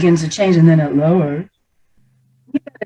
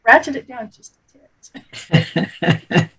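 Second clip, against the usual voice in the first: high, laughing plea to slow down; mock overwhelmed; 5 semitones higher, slower than usual. Coach retelling her plea to fast talkers, high and laughing. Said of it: "and I'm like".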